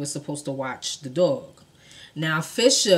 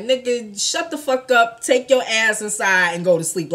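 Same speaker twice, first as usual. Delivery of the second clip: angry yell; 4 semitones higher, 6 dB louder than usual. Retold or imitated. Barry yelling at drunk.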